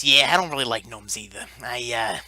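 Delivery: low threat to gobble them up; Molten Giant voice. Acted. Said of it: "the Molten Giant says".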